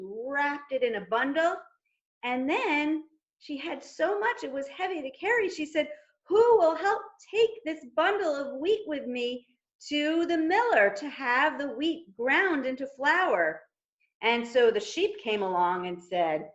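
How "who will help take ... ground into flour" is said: hen asking. Acted. Hen asks again.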